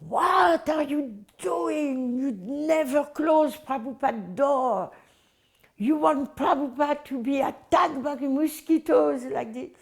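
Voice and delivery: mock yell at a careless helper; retold scream. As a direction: scold like an angry caretaker yelling. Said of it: "he start to scream at me".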